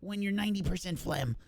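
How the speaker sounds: high, chirpy little gnome voice. Acted. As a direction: squeak it out like a tiny gnome. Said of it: "I'll talk in my gnome voice".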